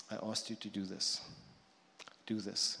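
low, softened, restrained command; quiet Father. Acted. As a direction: say it quietly and low, as a father instructing his son. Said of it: "the Father is just quietly saying".

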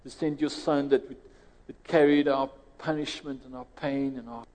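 steady earnest prayer voice. Acted. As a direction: pray aloud over the congregation. Leads the congregation in prayer.

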